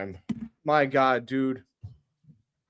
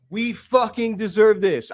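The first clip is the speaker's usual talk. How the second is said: higher, fired-up cry; real triumphant yell; excited shout; 5 semitones higher, 3 dB louder than usual. Real, not acted. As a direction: shout it like you finally won. Fan celebrating draft lottery win.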